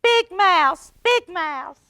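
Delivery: high, loud scared call; frightened cry. Acted. Frightened Little Mouse crying for his brother, high and loud. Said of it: "he cried".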